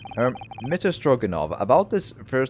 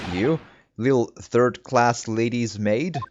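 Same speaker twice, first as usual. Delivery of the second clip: scornful sailor; 3 dB louder, slower than usual. Acted. Sailor character voice.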